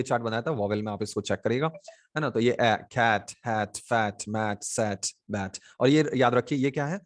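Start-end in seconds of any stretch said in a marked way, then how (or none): 2.5-5.6 "ए, कैट, हैट" with the short open a of cat; word-by-word drill of the short a in "कैट, मैट, बैट"; short vowel demo. Shown as a demonstration. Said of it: "short vowel sound".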